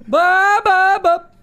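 high, loud repeated "ba"; involuntary shouted ba ba ba; loud tic burst. Real, not acted.

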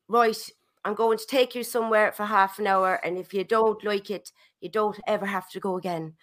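lightly imitated Irish mum; attempted Irish accent. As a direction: give a rough, hint-of-Irish accent. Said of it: "It wasn't Irish either".

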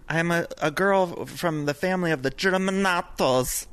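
slow, lightly Italian singer imitation; mock Italian accent. Guest imitates a singer's award speech, a light Italian accent. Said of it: "when did that accent come about?".

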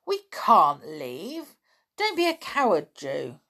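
put-on children protesting their brother's idea. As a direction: refuse to leave, outraged. The others protest loudly.

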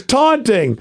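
high announced ruling; referee's penalty call. Retold or imitated. Referee throwing a flag, high penalty call.

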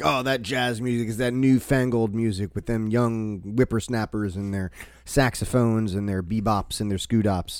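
lightly voiced grumpy old-timer; a hint of a cranky old man; old prospector. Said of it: "those are actual quotes from old people".

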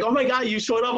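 high-pitched, excited exclamation; retold amazement. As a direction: play an astonished kid, voice jumping up. Boy surprised that speaker came.

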